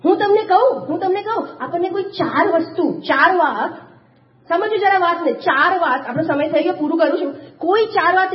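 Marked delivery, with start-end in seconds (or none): none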